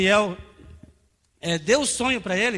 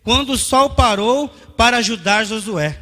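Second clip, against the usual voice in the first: raised, emphatic pulpit delivery; forceful preaching; 3 semitones higher, 7 dB louder than usual. Real, not acted. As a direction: preach it out to the congregation.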